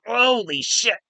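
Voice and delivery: high-pitched awestruck exclamation; mock awe. Reacting to the big boom on screen, high-pitched mock awe. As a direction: stretch it out, high and stunned.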